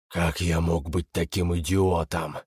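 low, booming metallic demon voice; a lightly voiced menacing demon; terrible metallic voice. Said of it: "прогремел страшный металлический голос".

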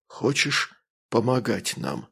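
slow, soft rustling question; calm rustling voice. Acted. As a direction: ask it calmly, whispering. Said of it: "голос остался спокойно шелестящим".

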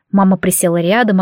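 ordinary delivery

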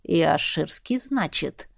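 low, soft musing brother; frowning brother. A narrator's reading. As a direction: think it over darkly. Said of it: "нахмурился брат".

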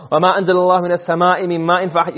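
fast, fluent recitation of the verse; Quran recitation. Shown as a demonstration. Teacher reciting the ayah to students, fast and fluent. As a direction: recite it quickly and evenly.

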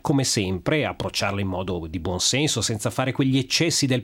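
talking with a blocked nose; stuffy nose from a cold. Real, not acted. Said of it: "Io stesso al naso chiuso".

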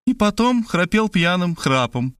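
high, cutting statement; spiteful. A narrator's reading. Maria cuts into her husband's account, spitefully. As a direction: put in an angry dig. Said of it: "зло констатировала Мария".

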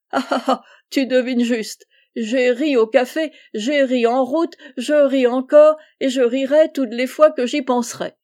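talking through loud laughter, rising; laughing out loud. Acted. Abel tells his friend why he is so merry, laughing. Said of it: "tu retiens un éclat de rire".

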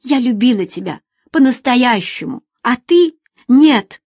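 scorned woman accuses him; bitter outcry. Acted. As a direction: throw it at him. Woman's angry outburst.

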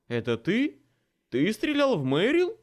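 loud, rising incredulous question; shocked disbelief. A narrator's reading. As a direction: demand it, unable to believe it. Stunned friend confronts the shooter. (потрясённо, не веря)

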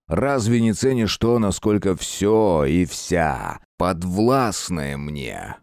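slow, gloating demon lord; proud sinister ruler boasting; dark lord. Acted. Lord boasts of his court.

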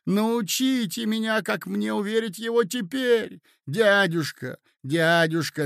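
pleading nephew. Acted. Nephew begging his uncle to think it over, pleading.

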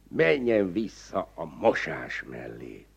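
normal talking voice

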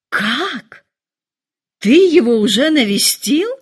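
громкий высокий изумлённый вскрик; мать ахает, не веря ушам; изумлённый возглас. A narrator's reading. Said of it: "воскликнула миссис Беннет". (мать поражена новостью о визите, вскрикивает громко и высоко)

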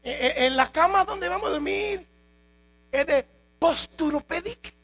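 high, pleading questions of a nervous new recruit; whiny recruit. Acted. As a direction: pester the captain like an anxious rookie. Recruit asking about bed, food.

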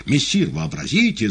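high, loud and overjoyed; the cat excitedly shouting the news to his master. A narrator's reading. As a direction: burst out with glee. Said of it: "закричал возбуждённый и радостно Бегемот".

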